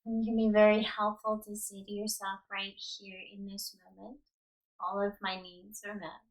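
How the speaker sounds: unhurried yoga nidra guidance with long pauses; guided meditation. Real, not acted. Yoga teacher settling listeners onto the ground, calm guided meditation. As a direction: guide them into rest, leaving space after each instruction.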